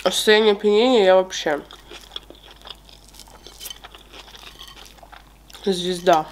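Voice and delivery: chewing while talking; muffled words around food; mouth full. Real, not acted. Seen 3: Fork brings food into mouth; cheeks full, chewing through 6.0.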